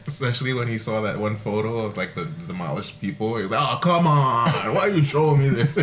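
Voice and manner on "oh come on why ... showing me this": imitated mobster accent, slightly raised; lightly hammed-up accent, complaining; Penguin. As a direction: put on the character's protesting accent. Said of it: "He had that whole, like, accent".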